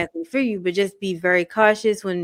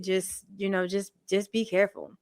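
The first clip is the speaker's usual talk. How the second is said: dropping to a whisper; hushed warning; 6 dB quieter than usual. Real, not acted. Quiet warning at end.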